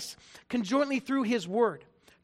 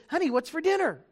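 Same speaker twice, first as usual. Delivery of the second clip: polite; 5 semitones higher than usual. Acted. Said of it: "politely say".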